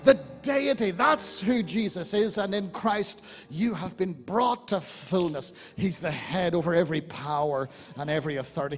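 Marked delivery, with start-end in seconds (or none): 0.0-5.5 getting excited. Real, not acted. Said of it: "Forgive me for getting a bit excited".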